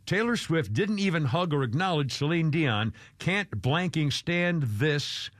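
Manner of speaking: slow quote read. Retold or imitated.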